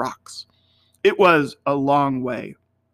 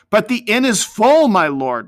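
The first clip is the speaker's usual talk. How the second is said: trembling; 6 semitones higher, 5 dB louder than usual. Acted.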